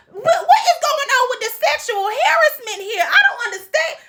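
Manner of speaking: high-pitched words through real laughter; laughing disbelief. Real, not acted. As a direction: laugh out the question, baffled. Laughing disbelief at harassment scene.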